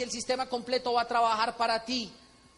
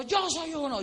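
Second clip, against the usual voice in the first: higher mock crowd yell; crowd shout; 5 semitones higher, slower than usual. The whole crowd answering the slogan, mock shout. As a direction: shout it back like everyone else. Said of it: "todo el mundo gritó".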